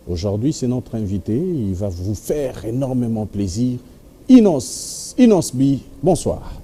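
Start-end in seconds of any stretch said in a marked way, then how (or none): 4.3-6.5 excited welcome. Real, not acted. Host announces guest to viewers.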